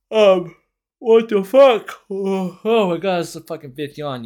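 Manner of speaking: loud, high mock exasperation; exaggerated bored outburst. Mocking himself to listeners, loud exasperated whine. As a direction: burst out in fake outrage at yawning.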